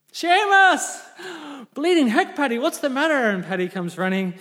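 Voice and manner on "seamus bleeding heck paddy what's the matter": high, loud hammed-up farmer's holler; mock yelling. Paddy calls Seamus the next morning, high mock shouting. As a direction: holler the name, then answer in alarm.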